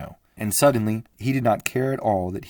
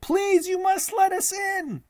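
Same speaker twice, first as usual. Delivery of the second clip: much higher and louder desperate cry; shouting; 5 dB louder than usual. Acted. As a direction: beg at the door with all his voice. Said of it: "he shouted".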